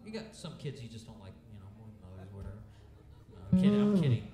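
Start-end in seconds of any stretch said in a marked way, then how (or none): 3.3-4.3 laughing. Real, not acted. Joke retracted with laughter.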